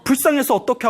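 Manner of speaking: acted wailing without real sobs; tearful children. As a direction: lament lightly, imitating distressed children. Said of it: "막 울고 있는 거예요".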